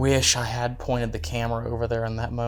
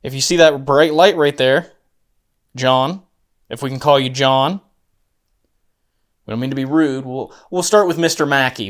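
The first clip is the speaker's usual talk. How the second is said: talking to a ghost; 4 dB louder than usual. Real, not acted. Addressing spirit of Mackey.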